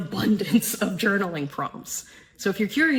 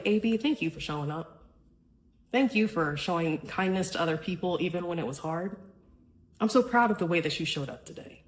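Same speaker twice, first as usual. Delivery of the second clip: tender self-praise; 2 semitones lower, 4 dB quieter than usual. Shown as a demonstration. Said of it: "saying something out loud".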